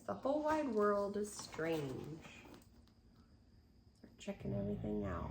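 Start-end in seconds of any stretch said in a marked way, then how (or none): 0.1-2.2 storybook reading. Acted. Reads picture book aloud.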